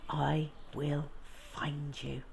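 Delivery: soft, hushed vow in the dark; whispered promise. Acted. Bertie promising the lion, hushed. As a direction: breathe it quietly beside the lion. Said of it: "he whispered".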